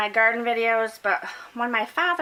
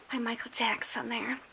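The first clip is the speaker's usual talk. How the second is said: whispering; 6 dB quieter than usual. Real, not acted. Quiet aside about teen crush.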